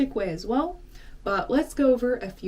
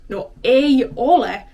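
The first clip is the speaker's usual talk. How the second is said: firm denial; 4 semitones higher, 12 dB louder than usual. Shown as a demonstration. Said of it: "And then you'd be like".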